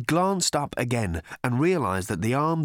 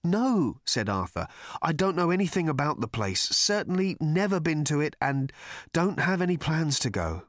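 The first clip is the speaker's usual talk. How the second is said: puzzled Arthur voice; 7 semitones higher than usual. Acted. Arthur denying.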